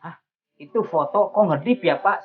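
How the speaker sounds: retold surprise. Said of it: "Saya bilang gini".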